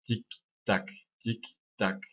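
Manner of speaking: "tic, tac" evenly spaced with a gap after each; measured, separate beats on "tic, tac"; metronome beat. Shown as a demonstration. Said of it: "Imaginez un métronome".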